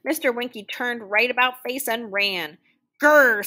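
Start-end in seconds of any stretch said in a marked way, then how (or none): 3.0-3.5 loud rolling bear growl; forceful storybook "grrr"; roaring bear. A narrator's reading. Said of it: "said the bear".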